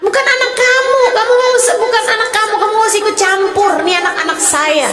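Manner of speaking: indignant mother. Retold or imitated. Mother telling off a stranger who scolded her child, indignant. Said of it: "Kamu bakalan bilang".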